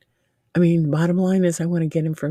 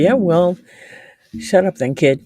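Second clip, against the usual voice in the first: mock rude teasing; 3 semitones higher, 6 dB louder than usual. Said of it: "No, I'm teasing".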